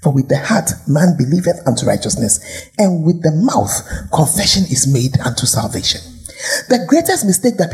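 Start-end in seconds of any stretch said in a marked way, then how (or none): 0.0-6.0 careful reading. Real, not acted. Preacher reads the verses to the congregation, careful and deliberate. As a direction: read it out carefully, phrase by phrase. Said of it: "I want to read it carefully".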